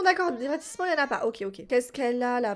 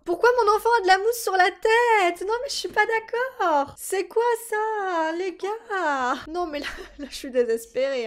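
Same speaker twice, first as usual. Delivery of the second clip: high, loud, indignant protest; hammed-up despair; mock outrage; 7 semitones higher, 4 dB louder than usual. Real, not acted. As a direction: play the scandalized parent. Foam on baby's head.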